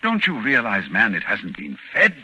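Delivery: pressing hard, pitch climbing with alarm; urgent insistence. Acted. Armitage warns Rice the thing is unfed, urgent and alarmed. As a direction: drive the danger home, urgent and rising.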